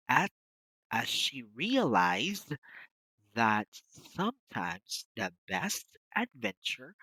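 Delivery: slow, careful read-aloud for learners; slow model reading. Shown as a demonstration. Teacher reads a passage to an interview trainee, slowly and carefully. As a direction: read it slowly, stressing each word. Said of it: "let me just read it".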